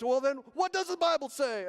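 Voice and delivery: loud, high preacher challenge; imitated preacher. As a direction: demand an answer from the congregation. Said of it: "he stopped and he goes".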